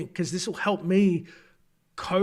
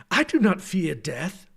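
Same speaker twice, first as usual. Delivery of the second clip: proud, louder elven mage; lofty high elf declaring; haughty high elf; 2 semitones higher, 5 dB louder than usual. Acted. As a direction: speak down your nose like a high elf mage. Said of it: "a haughty high elf".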